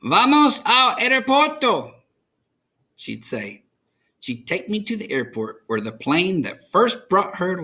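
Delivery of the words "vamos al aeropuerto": higher, lightly voiced abuela; an eager invitation; grandmother's voice. A narrator's reading. Abuela suggesting the airport, higher pitch.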